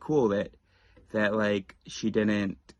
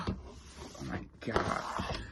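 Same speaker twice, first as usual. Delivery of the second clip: mock shocked gasp; 11 dB quieter, much slower than usual. Mock offended reaction.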